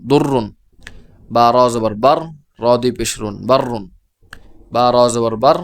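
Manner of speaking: measured spelling in parts, doubled consonant held in "হুব্বান", "দাক্কান"; tashdid spelling drill. Shown as a demonstration. Teacher pronouncing the next words for learners, demonstrative spelling drill. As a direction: rise on the closed syllable "দুর", then join as "দুররুন" with a held double র. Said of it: "আবার উচ্চারণ করছি এটা পরেরটা".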